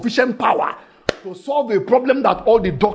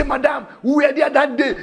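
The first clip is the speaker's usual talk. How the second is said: excited shout; 6 semitones higher than usual. Acted. Villagers urging the woman.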